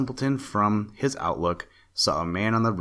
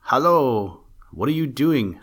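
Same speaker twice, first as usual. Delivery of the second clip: higher, louder hail to a man below; calling out; 5 semitones higher, 5 dB louder than usual. A narrator's reading. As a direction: shout down from the ship. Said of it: "calling out".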